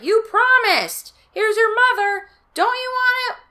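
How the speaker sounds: high, loud, accusing shout; angry yell. Acted. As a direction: yell it at the kids in outrage. Father yelling at the kids.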